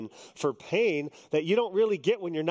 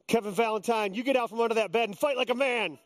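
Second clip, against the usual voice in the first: mock wife; 5 semitones higher, faster than usual. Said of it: "And she said".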